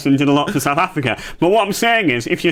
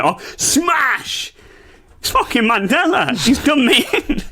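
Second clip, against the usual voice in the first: higher, hammed-up startled exclamation; mock shocked outburst; 10 semitones higher, slower than usual. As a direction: act out the crash like a cartoon. Reliving the crash moment.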